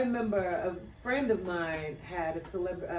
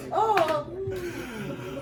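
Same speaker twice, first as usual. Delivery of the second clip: puzzled oh then hmm; 9 semitones higher than usual. Shown as a demonstration. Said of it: "And it kinda becomes a, hmm".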